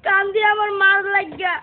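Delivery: crying pupil's monotone lament; tearful wailing. Acted. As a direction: whine it out on one sustained tone. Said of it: "তো কি নিয়ে কান্দস".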